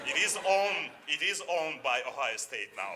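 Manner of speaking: high and loud with a laugh; amused claim the word is owned; laughing emphasis. Real, not acted.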